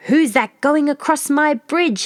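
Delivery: a terrible troll roaring up from under the bridge; troll bellowing. A narrator's reading. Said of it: "he bellowed".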